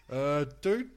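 mock-exasperated telling-off; retold incredulous rebuttal. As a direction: talk down to a deluded man. Retold incredulous reply to the weirdo.

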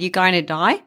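Aussie doctor's casual rising question; Australian accent. Retold or imitated. Doctor to American patient, broad Australian accent. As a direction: say today so it sounds like die, Aussie-style. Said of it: "And he said".

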